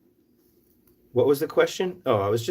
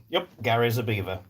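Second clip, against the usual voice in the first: put-on dry, straight-faced English accent; understated English deadpan; faster than usual. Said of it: "in England, they would just be like".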